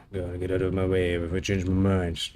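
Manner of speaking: low, hushed menacing warning; threatening whisper. Acted.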